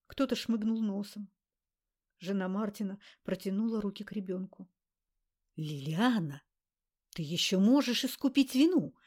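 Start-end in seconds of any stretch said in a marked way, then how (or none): 5.6-8.9 a master's voice hissing from the ring; hissing demon. A narrator's reading. Grarg's voice hisses at Liliana from the ring. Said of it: "прошипел голос Грарга".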